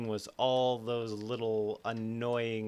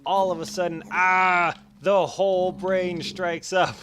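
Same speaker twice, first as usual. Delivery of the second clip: loud, higher burst of alarm; sudden alarm; 6 semitones higher, 8 dB louder than usual. Acted. Narrator describing the brain striking up, alarmed. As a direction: sound the alarm as the brain erupts.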